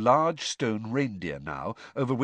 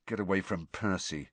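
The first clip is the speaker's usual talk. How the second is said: muttered aside; 2 semitones lower, 6 dB quieter than usual. Acted. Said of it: "Ron muttered to Harry".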